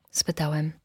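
usual speaking voice

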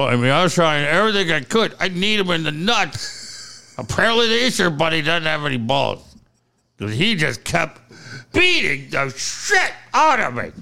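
talking through a clenched jaw; mock injured, teeth held shut; jaw wired shut. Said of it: "My jaw's wired shut".

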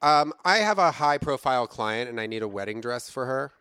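high, loud fancy client voice; Renee Fabergé voice. Acted. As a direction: play a grand high-society caller. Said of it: "Please hold for Renee Fabergé".

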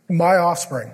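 "my" हल्का ज़ोर देकर; stress on my. Shown as a demonstration. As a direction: stress the word my. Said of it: "not Grace's".

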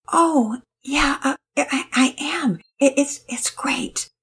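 high, hesitant near-whisper; barely above a whisper. A narrator's reading. Penelope answers her worried mother almost in a whisper. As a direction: breathe it out, trailing off. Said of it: "her voice barely above a whisper".

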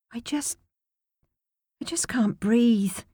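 a desperate near-whisper; breathless plea. Acted. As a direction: whisper it as if the room is suffocating. Desperate to escape the room.

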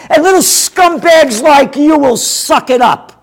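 mock the governor's announcement with contempt; mocking Cuomo. Host mocking the governor's announcement, sneering impression. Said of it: "little Andy Cuomo that on his daddy's birthday announced".

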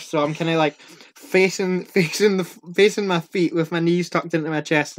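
ordinary delivery

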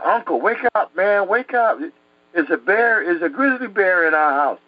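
acted-out boy's alarm; retold alarm. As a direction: rouse a sleeper with urgent news. Frightened boy waking his uncle.

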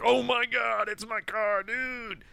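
a rocker seeing his lost car again, over the moon; overjoyed Johnny. Retold or imitated. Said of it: "He's so happy to see his car".

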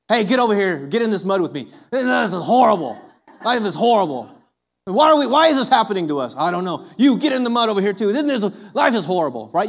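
hammed-up call into the mud, half whining; mock wallowing invite. Preacher mocks wallowers calling others into mud, hammed-up whine. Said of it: "wallow in it like a pig".

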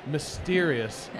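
slow, drawn-out noir ad voice; noir commercial. Pretend. Pitching a noir commercial, slow mysterious voice. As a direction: stretch it out for intrigue. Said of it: "a noir commercial about being busky".

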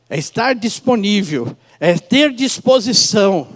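slow, weighty stress on each word; slow emphatic preaching. Real, not acted. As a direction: lean hard into every word.

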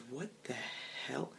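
barely audible, nearly voiceless; silent-style exclamation under the breath; mouthed words. Acted. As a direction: mouth it with hardly any sound. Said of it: "mouthing the words".

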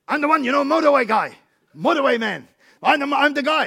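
high, loud mock Chinese accent. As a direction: insist on being recognised, imitating a Chinese accent. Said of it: "in this accent".

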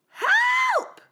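high, loud scream for help. A narrator's reading. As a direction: scream it in fright. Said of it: "Goldilocks screamed".

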